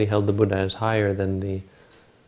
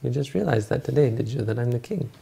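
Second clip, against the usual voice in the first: needling king, pitched higher; sarcastic; 4 semitones higher than usual. Acted. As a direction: act out mild mocking disbelief in a raised voice. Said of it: "gets all sarcastic".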